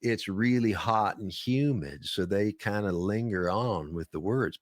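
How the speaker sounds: Deep South accent. Shown as a demonstration. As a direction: linger on the words like a Southerner. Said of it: "but I'm just joking".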